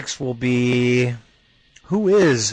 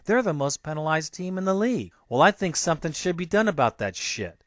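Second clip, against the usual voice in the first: pissed off; 6 semitones higher, 4 dB quieter than usual. Real, not acted. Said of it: "'cause I'm pissed".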